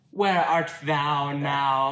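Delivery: Romeo voice. Retold or imitated. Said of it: "What was the voice I used for Romeo".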